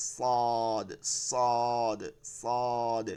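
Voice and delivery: "সদ" with heavy s and rounded long vowel; thick hiss. Shown as a demonstration. Teacher drilling the letter, thick hiss. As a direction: hold "সদ" thick and level. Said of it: "মোটা".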